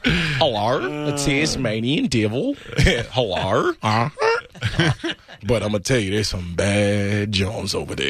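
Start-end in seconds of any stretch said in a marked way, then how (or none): 0.0-2.5 honking mock Australian accent. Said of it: "looking around for eggs when they start talking". 2.8-4.1 mock Australian hello with honk; Australian accent like goose. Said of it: "a Canadian goose".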